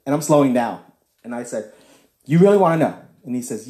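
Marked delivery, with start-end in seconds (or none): 2.2-3.0 louder, pressing repeat; louder insistence. Retold or imitated. Pressing the stranger in the truck for an answer, louder. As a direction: push the question harder.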